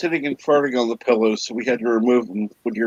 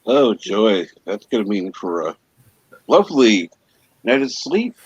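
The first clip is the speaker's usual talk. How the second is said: dry mock delight, lifting on lovely; sarcastic. Real, not acted. Co-host on the visitors spoiling a night's sleep, sarcastic. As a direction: feign pleasure at bad news.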